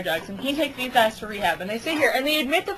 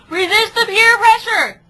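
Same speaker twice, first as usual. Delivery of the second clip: much louder and higher, slow and emphatic; rallying call; 11 semitones higher, 11 dB louder than usual. Real, not acted. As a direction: proclaim it like a slogan. Moral of the presentation, proclaimed.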